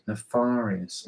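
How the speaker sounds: "Nefarious" softly, barely moving the mouth. Shown as a demonstration. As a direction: hush the word "Nefarious" like a secret. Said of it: "You say it very softly".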